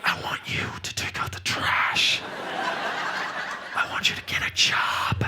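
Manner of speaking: loud whispered nagging orders. Retold or imitated. Girlfriend barking chores at him in a loud stage whisper. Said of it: "I was waiting for her to be like".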